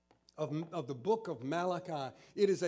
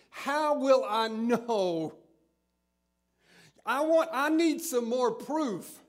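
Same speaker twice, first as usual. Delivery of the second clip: insistent demand; 4 semitones higher, 4 dB louder than usual. Acted. Zacharias demands proof from angel.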